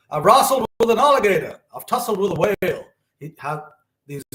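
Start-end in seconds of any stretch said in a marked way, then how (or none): 0.1-2.9 raised, louder quoted boast; Muhammad Ali. Retold or imitated. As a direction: proclaim it like a champion's rhyming brag. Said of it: "Muhammad Ali used to have these, uh, phrases".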